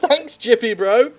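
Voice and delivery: slow, loud, laughing repeat of the game line; mock the line while cracking up; laughing mimicry. Shown as a demonstration.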